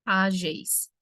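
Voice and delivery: "Ágeis" dito em duas sílabas separadas; separação silábica. Shown as a demonstration. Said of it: "Como que fica a separação assim". ("Ágeis" silabado)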